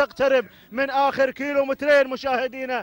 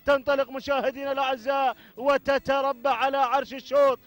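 fervent race call with repeated cries; live play-by-play; 3 dB quieter than usual. Real, not acted. Commentator following camels to the finish, energetic play-by-play. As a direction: keep the race call rolling.

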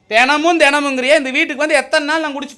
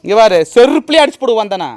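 loud, real warning; angry threat; 2 semitones lower, 7 dB louder than usual. Real, not acted. Husband threatening to hit with a slipper, angry threat. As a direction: threaten loudly, in earnest.

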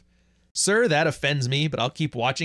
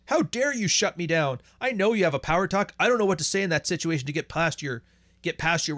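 lightly voiced loser, pitched up in protest; mock mild indignation in a higher voice; a hint of an affronted loser; indignant loser; 4 semitones higher than usual. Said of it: "the losers would be the ones like".

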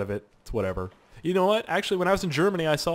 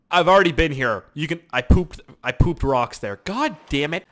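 exasperated; 3 semitones higher, 6 dB louder than usual. Real, not acted. Finds island already visited, exasperated.

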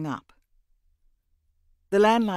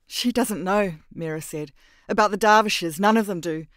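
higher and louder, tearful; 5 semitones higher, 7 dB louder than usual. A narrator's reading. Mira, weeping, tells Lemoine the girl doesn't know. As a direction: speak through tears. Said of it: "tears were coursing down her cheeks".

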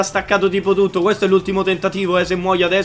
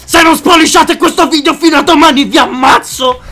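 mock threat; 8 semitones higher, 8 dB louder than usual.

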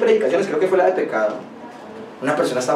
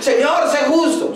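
slow, higher mock demand to God; mocking quote; 8 semitones higher, slower than usual. Preacher mimics people demanding justice from God, mocking and slow. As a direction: parody people who demand justice, drawn out. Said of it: "Hay gente que dice".

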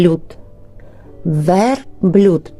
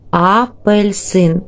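slow teacher demo; 3 semitones higher, slower than usual. Shown as a demonstration. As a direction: stretch "Апельсин", opening sound clear. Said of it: "Який звук?".

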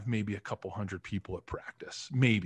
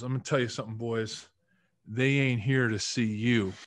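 put-on Alex Gibbs's Southern accent. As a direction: break the news like a Southern coach. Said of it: "Southern North Carolina accent".

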